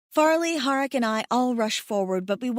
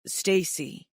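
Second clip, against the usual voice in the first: soothing; 3 semitones lower than usual. A narrator's reading. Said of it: "Pashov soothes again".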